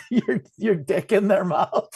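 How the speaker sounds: laughing. Real, not acted. Joke while laughing.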